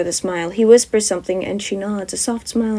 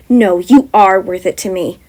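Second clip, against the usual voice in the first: calm; 5 dB louder than usual. Acted. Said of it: "Jem states calmly".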